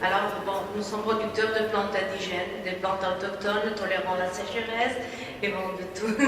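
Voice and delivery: halting non-native French accent; hesitant French with a foreign accent; broken French. Real, not acted. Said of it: "Je parle un peu français".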